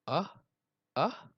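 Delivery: rising "uh... uh" with pauses; sneeze build-up. A narrator's reading. Elephant makes the forest wait, halting rising gasps. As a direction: hold back a pretend sneeze in little gasps. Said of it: "The whole forest waited".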